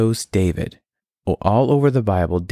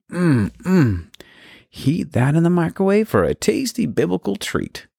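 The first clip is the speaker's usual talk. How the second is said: higher, salesy commercial voice; ad pitch voice; 9 semitones higher than usual. Pretend. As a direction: sell it like a TV ad. Mock cooking ad pitch.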